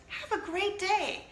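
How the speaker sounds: a hint of the sweet old walker; lightly voiced old woman, slow; mimicking the old lady. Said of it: "She just says".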